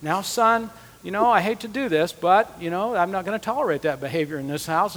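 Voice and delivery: a hint of a syrupy father before a whipping; mock sweet fatherly voice. Dad speaking sweetly to his son before punishing him, softly imitated. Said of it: "he was speaking to me so sweetly".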